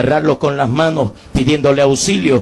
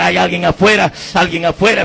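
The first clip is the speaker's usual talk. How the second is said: higher, mildly raised calling out; retold shout; 5 semitones higher than usual. Trapped man calls to a passing car, mild retold shout. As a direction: call out urgently, short of a full shout. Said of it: "y empecé a gritar".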